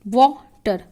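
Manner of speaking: वाटर said with the r swallowed; r dropped in water. Shown as a demonstration. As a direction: say वाटर without the final r. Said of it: "तो जो आर है वो कहीं ना कहीं क्या हो रहा, खो जा रहा है". (r गायब करके वाटर)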